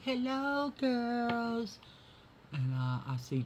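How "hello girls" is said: much higher, sing-song voice for the cats; high cat greeting. Real, not acted. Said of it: "I always say".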